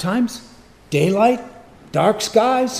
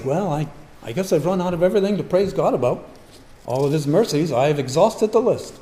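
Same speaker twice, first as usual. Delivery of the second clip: mock complaint; 2 semitones lower, 4 dB quieter, faster than usual.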